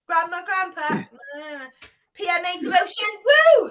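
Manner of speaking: loud, building to a high woo; rally the group into cheering; excited cheer. Shown as a demonstration. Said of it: "Where's those woos?".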